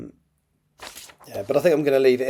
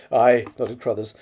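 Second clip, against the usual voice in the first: measured, expressive novel reading; story narration; 5 dB louder than usual. A narrator's reading. Author reads a draft chapter aloud, story narration. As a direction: read it out as an audiobook narrator.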